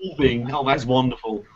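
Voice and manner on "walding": amused disbelief. Real, not acted. Savoring a silly race name.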